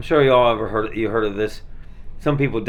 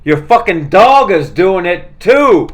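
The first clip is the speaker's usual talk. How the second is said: slow, louder, higher deadpan jab; mocking quote; 6 semitones higher, 8 dB louder, slower than usual. Retelling a comedy scene about the dog, slow mocking retort. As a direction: drag it out like a punchline. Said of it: "the guy goes".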